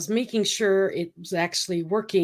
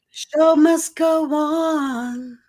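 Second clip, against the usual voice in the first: dramatic; 8 semitones higher, 4 dB louder, much slower than usual. Pretend. Repeating catchphrase dramatically.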